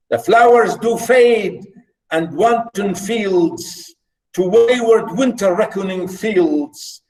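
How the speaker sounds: deliberate, drawn-out verse reading with line pauses; poem recitation. Acted. Teacher reading the nymph's reply to class, poem recitation. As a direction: declaim each line, lifting its opening and falling at the end.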